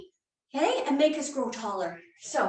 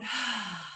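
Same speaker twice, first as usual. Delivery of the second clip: slow exhale; 5 semitones lower, 6 dB quieter than usual. Shown as a demonstration. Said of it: "breathe out".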